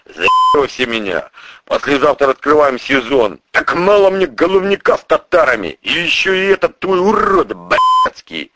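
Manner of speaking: a crime boss chewing out his prosecutor; furious boss. Acted. Boss grumbles.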